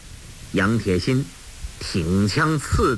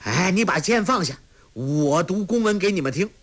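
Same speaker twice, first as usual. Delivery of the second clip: a touch of fear, higher; placating, uneasy; nervous call; 7 semitones higher than usual. Acted. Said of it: "叫道".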